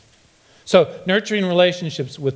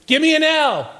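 gloomy cheer call; 10 semitones higher than usual. Pretend. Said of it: "pessimistic cheerleaders".

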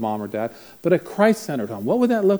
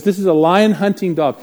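proud announcing; 4 semitones higher, 6 dB louder than usual. Retold or imitated. Owner repeats emphatically.

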